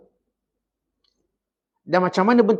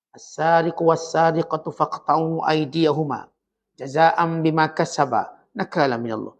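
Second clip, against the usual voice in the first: Quran recitation; slower than usual. Acted. Quran verse recited in sermon.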